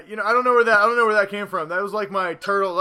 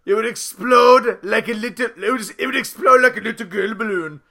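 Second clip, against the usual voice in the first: put-on Russian accent. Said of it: "turned my German to a Russian accent".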